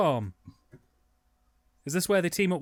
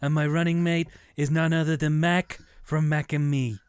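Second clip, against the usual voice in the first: politician announcement. Pretend. Mock campaign announcement.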